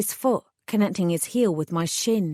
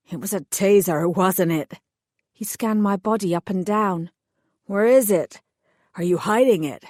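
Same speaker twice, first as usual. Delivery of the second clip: hired thug voice. Acted. Thug explains his orders to the heroine, sullen lowered voice. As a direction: play the sulky hired heavy explaining himself.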